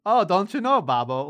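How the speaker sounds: mock Minnesota accent, leaping high then dropping. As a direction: imitate a wife's folksy Minnesota accent. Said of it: "without the Minnesota accent".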